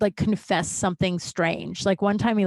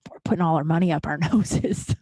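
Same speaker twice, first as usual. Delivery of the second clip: breaking into a laugh mid-quote; 4 semitones lower than usual. Real, not acted. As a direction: let a chuckle slip into the serious story. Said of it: "I'm laughing at it now".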